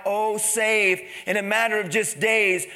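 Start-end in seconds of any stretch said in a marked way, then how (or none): 0.1-1.0 raised, slightly louder retold cry. Preacher recalling the fickle crowd's plea, crying out. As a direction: lift the voice like a crowd calling. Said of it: "people who cried out".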